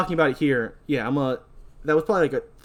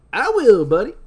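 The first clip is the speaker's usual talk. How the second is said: high, loud parting shout; cocky bro farewell; 6 semitones higher, 8 dB louder than usual. Acted. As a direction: toss it back over your shoulder. Titus, as he's walking away, says.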